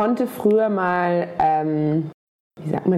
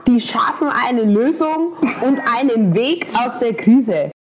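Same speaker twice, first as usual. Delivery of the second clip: put-on Bavarian politician accent; 3 semitones higher, 3 dB louder than usual. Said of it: "die sprechen immer so".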